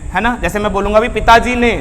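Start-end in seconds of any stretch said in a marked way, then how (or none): 1.1-1.7 पिताजी ने picked out with emphasis; emphatic पिताजी ने; stress on पिताजी ने. Shown as a demonstration. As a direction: lean on पिताजी ने as the key phrase. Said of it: "एक तो पिताजी ने है".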